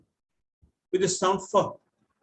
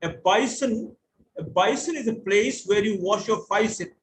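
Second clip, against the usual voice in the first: Cockney accent. Shown as a demonstration. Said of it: "So that's typical Cockney".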